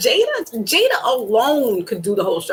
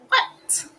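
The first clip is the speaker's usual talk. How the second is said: whispered disbelief; 4 dB quieter than usual. Real, not acted.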